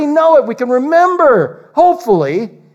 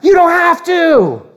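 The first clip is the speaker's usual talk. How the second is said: laughing shout; 7 semitones higher than usual. Shown as a demonstration. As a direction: laugh it out as you insist. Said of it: "I'm just joking".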